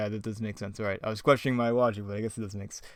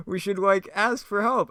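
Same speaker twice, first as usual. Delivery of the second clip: high cartoon slacker voice, pushed louder; Shaggy; 9 semitones higher, 5 dB louder than usual. Shaggy proposing to get help, high impression. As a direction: suggest it in a squeaky put-on voice. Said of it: "I really got Shaggy down".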